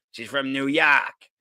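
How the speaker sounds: slow New York drawl with "York" said as "Yawk"; mock New York accent. Shown as a demonstration. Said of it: "that's probably not even a New York accent".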